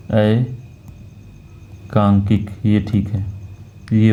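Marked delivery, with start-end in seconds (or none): 0.1-2.5 एकांकिक stretched out very slowly; slow clear pronunciation. Shown as a demonstration. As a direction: dictate एकांकिक syllable by syllable. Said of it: "इसका होता है एकांकिक".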